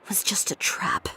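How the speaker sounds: whispered, bitter admission; quiet realization. Acted. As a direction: breathe it out under your breath.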